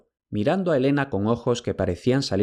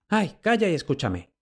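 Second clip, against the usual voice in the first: exclamation; 7 semitones higher than usual. A narrator's reading. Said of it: "exclamó Helena".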